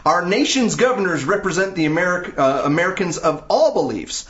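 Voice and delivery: high, mock Southern oratory; Southern accent. Shown as a demonstration. Host declaims statement urging officials to reject governor's invitation, mock Southern accent. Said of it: "statement in a Southern accent".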